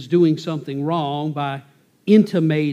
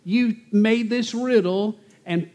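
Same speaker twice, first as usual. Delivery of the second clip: higher, pleading mock tears, a touch of a whine; fake crying plea; 6 semitones higher than usual. Samson's wife whining to him with fake tears, higher mock crying. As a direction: paint crocodile tears over the complaint. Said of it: "she's crying, the, the phony tears are coming down".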